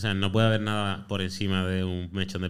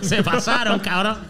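laughing; 10 semitones higher than usual. Real, not acted. Price guess overshoots, laughing.

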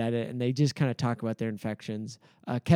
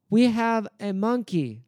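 higher-pitched, lightly voiced dumb character; dumb singer impression; 7 semitones higher than usual. Answering Stuart's talk about the relationship, dumb character voice. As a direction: imitate a dim sketch character. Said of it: "dumb character".

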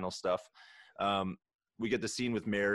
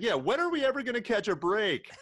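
mock whiny complaint; 12 semitones higher, 4 dB louder than usual. Harry complaining in movie quote.

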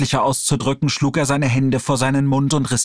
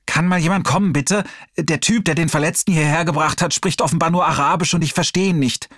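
put-on helpless young nurse; 5 semitones higher than usual. Nurse calls for help.

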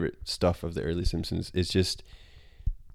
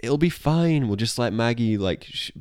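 Homer voice; 2 semitones higher than usual. Retold or imitated. Homer voiced in a retold scene.

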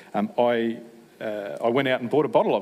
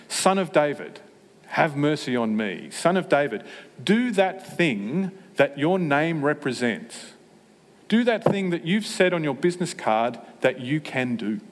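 crying out; 4 semitones higher than usual. Retold or imitated. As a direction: cry out to him, begging for mercy. Beggar cries out to Jesus.

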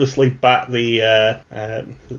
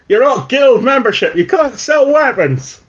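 higher, angry merchant shouting; merchant yelling; 10 semitones higher than usual. Acted. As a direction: bark it like a cheated trader. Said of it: "He yells".

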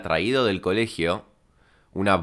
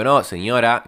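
raised, higher voice calling across the street; retold shouting; 4 semitones higher, 6 dB louder, slower than usual. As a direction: imitate yourself calling out in protest from afar. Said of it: "yo gritándole". (gritando a lo lejos, imitado)

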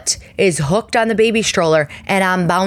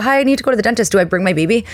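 higher, unsure little phone voice; mock nervous question; 4 semitones higher, much faster than usual. New mother asking the dentist about her baby, higher and unsure. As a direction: play it as a flustered new mom.

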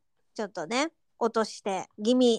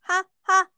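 breathy ha ha ha, spaced out; fake laugh syllables; 6 semitones higher, 5 dB louder than usual. Shown as a demonstration. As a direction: say は は as a dry laugh. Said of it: "はっていうだけで笑ってるみたいな".

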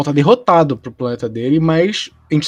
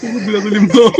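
laughing mid-sentence; 5 semitones higher, faster than usual. Real, not acted. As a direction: giggle through the words. Laughing at his own joke.

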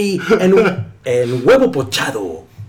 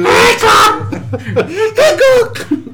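last word echo; much slower than usual. Pretend. High echo of brand.

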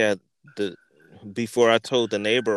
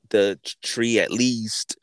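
slow, unvoiced whisper; whispered thanks. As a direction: mutter the thanks in a hushed whisper. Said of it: "I was like".

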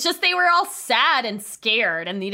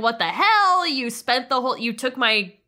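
retold angry brother. Brothers fighting over the girlfriend.

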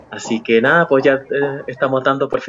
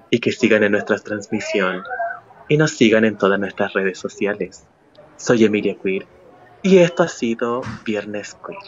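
sultry radio sign-off; sensual voice; 3 semitones lower than usual. Shown as a demonstration. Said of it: "quería hacerlo con una voz sensual como esta".

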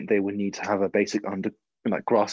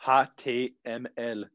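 put-on German accent; 2 semitones higher, slower than usual. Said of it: "describe code in a German accent".

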